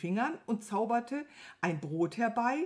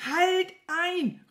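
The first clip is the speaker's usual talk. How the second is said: high, loud cry of interruption; calling out; 10 semitones higher, 6 dB louder than usual. A narrator's reading. Wizard stopping his servant's muddled list, shouting. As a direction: cut them off with a sharp shout. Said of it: "rief der große Zauberer".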